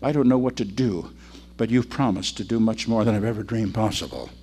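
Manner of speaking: lightly acted, subdued plea to God; prayer. Showing a believer praying in a crisis, subdued plea. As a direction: plead gently, softening at the end. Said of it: "kneel down and pray and say".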